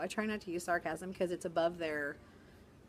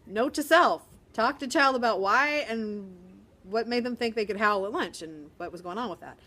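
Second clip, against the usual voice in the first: mock mental note; 8 dB louder than usual. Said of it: "And you go".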